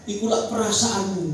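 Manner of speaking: mock retort. Wife's retort retold, audience laughs.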